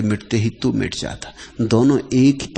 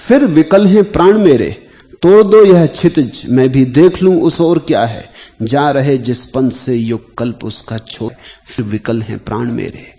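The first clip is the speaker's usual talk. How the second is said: verse recital from a raised opening; poetry recitation; 5 dB louder than usual. Acted. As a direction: recite it like a yearning poem, easing down by the end. Recites poem, first lines high and loud.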